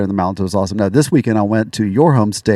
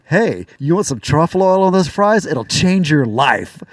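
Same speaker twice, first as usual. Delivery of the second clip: tipsy salesy offer; 5 semitones higher, slower than usual. Retold or imitated. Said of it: "turned to him unsolicited and go".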